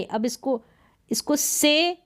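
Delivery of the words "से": "से" with a drawn-out A; long A. Shown as a demonstration. Teacher showing AY read long, drawn-out vowel. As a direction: hold the vowel in "से". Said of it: "long पढ़ रहे हैं ना".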